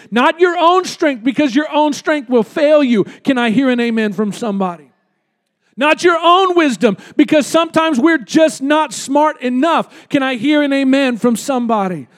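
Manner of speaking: full-force preaching climax. Real, not acted. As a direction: build it up and hit each line.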